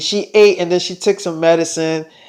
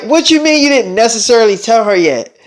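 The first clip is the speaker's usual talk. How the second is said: mildly indignant echoed question; a touch of affronted disbelief; indignant challenge; 2 semitones higher than usual. Acted. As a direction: throw the admission back as a challenge. Lover challenges his admission.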